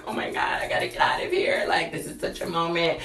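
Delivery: breathy panicked whisper. Retold or imitated. Retold panicked thoughts.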